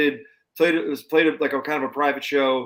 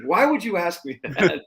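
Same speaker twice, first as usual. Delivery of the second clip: slower, higher, teasing drawl; drawn-out mock innocence; 4 semitones higher than usual. The pilot repeating his dodge, slower and coy. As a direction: stretch it out, pretending not to know.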